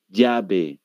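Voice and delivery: "llave" said as "yabe"; Peruvian Y. Shown as a demonstration. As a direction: start "llave" with a Y sound. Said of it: "es como dicen".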